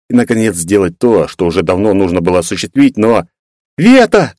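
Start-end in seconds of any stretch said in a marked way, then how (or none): 3.8-4.3 much higher, louder cry of joy; two girls shrieking happily at their friend; joyful shriek. Acted. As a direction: squeal her name with delight. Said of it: "Два радостных вопля".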